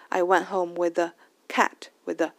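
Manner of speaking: "cat" weighted, "with the" light and linked; stress on CAT. Shown as a demonstration. Teacher shows stressed and weak words, stress on CAT. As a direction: land on "cat" after a very light "the". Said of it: "这个the就很轻， 然后cat我重读了一下".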